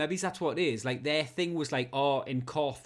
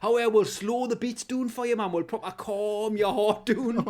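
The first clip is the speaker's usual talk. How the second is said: mock reassuring DJ; 6 semitones higher, 5 dB louder than usual. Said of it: "We'd be like".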